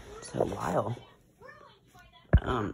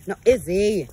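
1 loud scold; 6 semitones higher, 10 dB louder than usual. Real, not acted. Dog escaping into yard.

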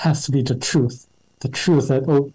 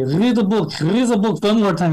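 put-on thick French accent, raised pitch; Michel's French accent; 7 semitones higher than usual. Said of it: "in his thick French accent".

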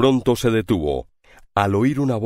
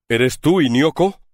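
stammering; 6 semitones higher, 3 dB louder than usual. A narrator's reading. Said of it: "balbuceó".

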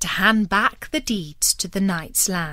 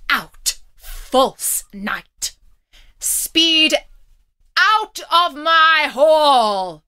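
loud, higher, slow roar; furious shout; 7 semitones higher, 7 dB louder, much slower than usual. Acted. Abbot cursing the knight out of his hall, shouting. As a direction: throw him out of the hall with fury. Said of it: "he shouted".

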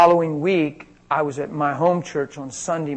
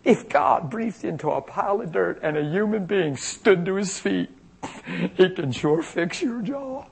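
higher-pitched, lightly giddy retelling; silly delight; 4 semitones higher than usual. Retold or imitated. Minister telling the girl his amazing thought, silly delight. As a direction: share the thought as if tickled by it. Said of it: "silly about it".

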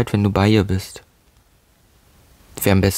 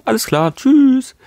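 mock farewell; 14 semitones higher, 4 dB louder, slower than usual. Mocking reply to chat message.

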